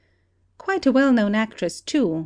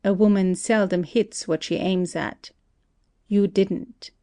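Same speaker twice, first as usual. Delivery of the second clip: deliberate and distinct. Acted. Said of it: "speaking very deliberately and distinctly".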